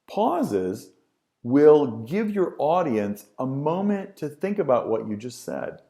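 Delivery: hammed-up slow delivery with long pauses; exaggerated pausing. Shown as a demonstration. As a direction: overdo the pauses, stretch every beat. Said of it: "that was ridiculous".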